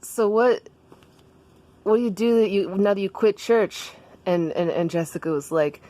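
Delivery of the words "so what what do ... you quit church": Daniel. Acted. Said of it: "and then Daniel was like".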